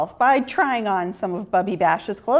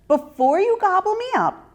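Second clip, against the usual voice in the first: put-on higher, sweetly coaxing girl voice; friendly little girl; 10 semitones higher than usual. A narrator's reading. Ruthie coaxing the hungry wolf, higher sweet voice. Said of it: "like an old friend".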